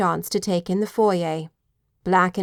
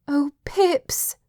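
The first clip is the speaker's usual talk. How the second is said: joyful cry; 7 semitones higher than usual. A narrator's reading. She throws herself into his arms.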